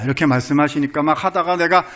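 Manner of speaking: ordinary talk, nothing marked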